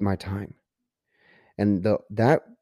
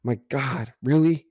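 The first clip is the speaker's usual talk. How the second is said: higher, dismayed retelling of his own reaction; replaying the heartbreak of a bad time, pitched up; devastated disbelief; 4 semitones higher than usual. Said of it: "I was devastated".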